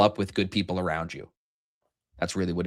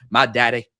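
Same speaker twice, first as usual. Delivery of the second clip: put-on Southern accent; 6 dB louder than usual. Host imitating Southern people talking about their parents, Southern accent. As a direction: say it like a proud Southerner. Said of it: "when Southern people talk about their parents".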